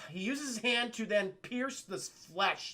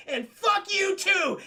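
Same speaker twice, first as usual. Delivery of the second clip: high, slow, loud battle yell; retold defiant yell; defiant shout; 13 semitones higher, 8 dB louder, slower than usual. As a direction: hurl it at the monster. Throwing dynamite at monster.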